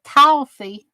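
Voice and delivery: "Coffee." in a little southern accent. Shown as a demonstration. Repeating how she says the word, southern accent. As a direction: lean into the southern way of saying "Coffee.". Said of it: "My little southern accent".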